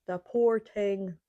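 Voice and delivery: slow local Irish "the poor thing"; local Irish accent. Shown as a demonstration. Showing how locals say it, drawn-out Irish accent. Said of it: "is what they say here".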